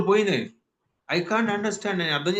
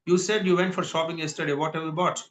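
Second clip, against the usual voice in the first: natural quick pace; slower than usual. Shown as a demonstration. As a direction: run it together fluently. (వేగంగా మాట్లాడటం)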